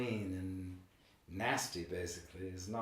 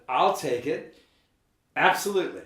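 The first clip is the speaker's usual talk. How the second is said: louder, higher and eager; 6 semitones higher, 10 dB louder than usual. Retold or imitated. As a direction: jump at the offer. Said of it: "I said".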